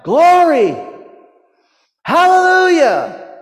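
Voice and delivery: loud, high-pitched shout of praise; jubilant shout. Retold or imitated. Woman given a new house praising God, jubilant shout. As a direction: let out an overcome cry of praise. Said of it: "she began to shout".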